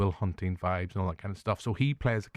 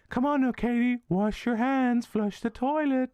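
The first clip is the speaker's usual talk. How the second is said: much higher, louder nanny-robot voice; the robot doll talking; 13 semitones higher, 3 dB louder than usual. Retold or imitated. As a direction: chirp it like a bossy robot nanny. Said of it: "That's how she talks".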